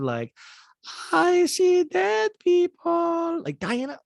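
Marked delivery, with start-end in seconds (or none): 1.1-3.4 high, slow, eerie intoning; creepy trailer line, loud and drawn out; horror movie trailer. Acted. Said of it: "horror movie trailers".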